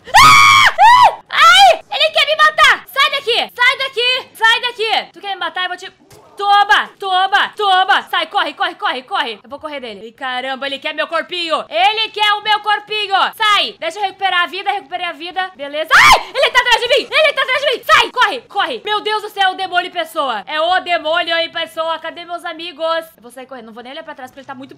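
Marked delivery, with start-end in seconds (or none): 0.0-5.1 panicked high screaming; being chased. Real, not acted. Monster attacks in the game. 6.4-9.4 loud frantic shouting; being chased. Real, not acted. Fighting off the monster. 15.9-22.0 being chased. Real, not acted. Monster right behind her.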